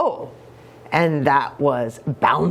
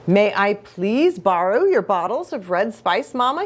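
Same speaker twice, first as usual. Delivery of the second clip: polite asking. Acted. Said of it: "he asked politely".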